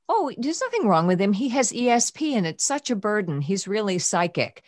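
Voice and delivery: breezy dismissive therapist, lightly voiced; mock therapist. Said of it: "I had one therapist tell me".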